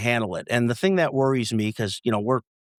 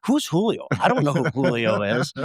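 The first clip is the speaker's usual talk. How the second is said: imitating his son. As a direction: play the son asking who that is. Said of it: "for him to say".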